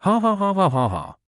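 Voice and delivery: high, bursting laugh; burst of laughter. A narrator's reading. Boyfriend bursts out laughing at his girlfriend's game death. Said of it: "burst out laughing".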